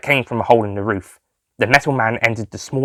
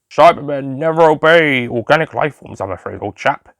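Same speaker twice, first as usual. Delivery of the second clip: robot voice; 4 semitones higher than usual. Acted. Cyberman voice in story.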